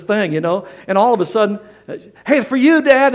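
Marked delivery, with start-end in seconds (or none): 2.3-3.1 higher, louder call across the house. Retold or imitated. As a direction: shout to dad from another room. Daughter calling out.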